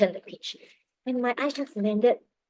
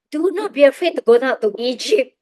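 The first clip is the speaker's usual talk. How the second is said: quoting scripture loudly, pitched up; emphatic proclamation; 5 semitones higher, 9 dB louder than usual. Retold or imitated. God reassures a traveler about Egypt, emphatic proclamation. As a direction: proclaim the verse high and loud. Reads out God's word from Genesis.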